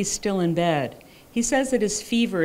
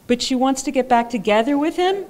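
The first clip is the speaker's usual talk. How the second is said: incredulous, higher and laughing; laughing in disbelief; 7 semitones higher, 4 dB louder than usual. Real, not acted. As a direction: laugh through the question. Incredulous question.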